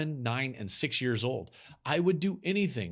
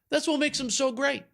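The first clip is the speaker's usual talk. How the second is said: excited repeat; 12 semitones higher than usual. Shown as a demonstration. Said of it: "But that's what makes them so great".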